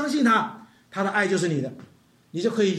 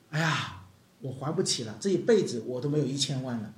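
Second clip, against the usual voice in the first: pleading servant; 7 semitones lower, 5 dB quieter than usual. Acted. Servant pleads inability to pay.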